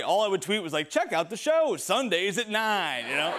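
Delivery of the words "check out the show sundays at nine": straight promo voice. Retold or imitated. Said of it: "I played it straight".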